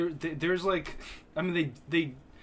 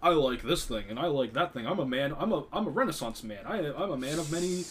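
lively, singsong mock boasting; mock self-important; 3 semitones higher, 3 dB louder than usual. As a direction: ham up a grand self-description, half laughing. Mock self-description as versatile man.

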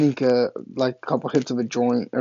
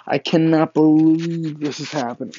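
overjoyed disbelief; 3 semitones higher than usual. Retold or imitated. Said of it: "I lose my fucking mind".

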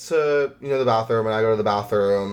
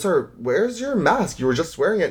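stern flight attendant; 7 semitones higher than usual. Retold or imitated. Flight attendant confronts maskless man.

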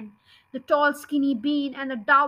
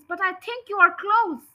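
shouting; 5 semitones higher, 3 dB louder than usual. Acted. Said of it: "shouted Bogus".

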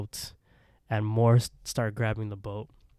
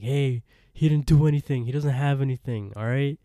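raised-voice retold outburst; mock screaming protest; 3 semitones higher, 4 dB louder than usual. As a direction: protest higher and louder, half-screamed. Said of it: "Sean starts screaming".

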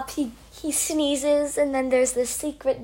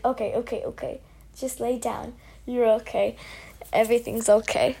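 soft, calming reassurance; soothing teacher; 3 semitones lower, 6 dB quieter, faster than usual. Retold or imitated. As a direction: hush and calm her down. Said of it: "this teacher comes up and he's like".

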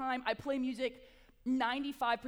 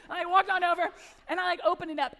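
laughing; 5 semitones higher, 9 dB louder than usual. Real, not acted. Laughing while telling.

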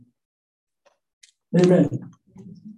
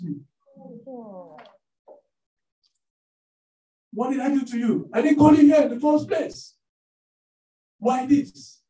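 annoyed woman; 3 semitones higher than usual. Retold or imitated. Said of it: "and the woman said".

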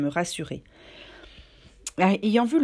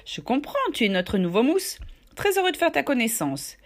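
hearty, louder greeting; 5 semitones higher than usual. Acted. Silver welcoming the new cabin boy, loud and hearty. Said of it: "d'une voix forte".

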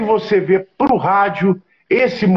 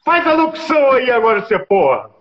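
lightly voiced nagging fan, pitched up at first; pushy fan; 5 semitones higher than usual. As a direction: imitate a pestering fan demanding a performance. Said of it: "eu que nem aquele fã chato assim". (fã chato insistente, levemente imitado)

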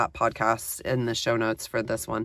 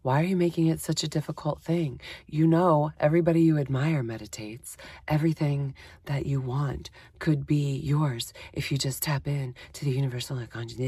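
softer, coaxing voice of reason; gentle persuading inner voice; 5 dB quieter than usual. Retold or imitated. Inner voice nudging her to meditate, softly coaxing. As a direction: coax her gently, a touch spiritual. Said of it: "the other voice is like".

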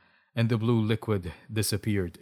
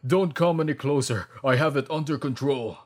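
loud, raised urgent warning; yelling; 4 semitones higher, 5 dB louder than usual. A narrator's reading. Doctor warning Alexa away, yelling. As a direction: call out to keep her back. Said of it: "he yelled".

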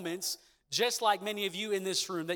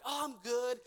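fake cheerful; 4 semitones higher, 5 dB quieter than usual. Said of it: "putting on a fake smile".

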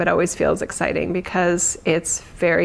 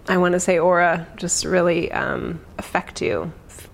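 guided meditation. Acted. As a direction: ease them gently into calm. Leads a meditation.

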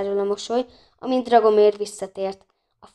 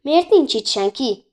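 impatient; 4 semitones higher, 4 dB louder, slower than usual. A narrator's reading. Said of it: "türelmetlenül nyomkodni kezdte a csöngőt".

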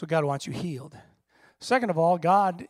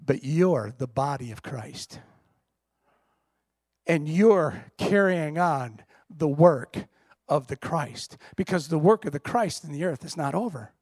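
voice of God; 2 semitones lower than usual. Acted. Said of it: "He goes".

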